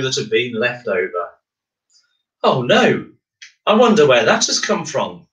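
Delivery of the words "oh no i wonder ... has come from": higher, louder mild groan. Acted. Miles finds a leftover screw at bedtime, a mild groan. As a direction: groan it, tired and fed up. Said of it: "he groaned".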